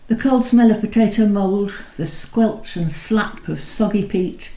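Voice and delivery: measured, unhurried reading of a poem; poetry reading. Acted. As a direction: let each image land with a pause after it. The speaker reads a Heaney poem.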